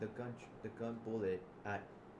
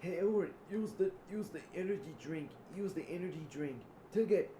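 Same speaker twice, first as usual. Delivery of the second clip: high, loud, insistent urging; urgent calling out; 9 semitones higher, 6 dB louder than usual. Acted. Zip urging Edward to take a drink, loud and high. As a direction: call out to someone mid-chase.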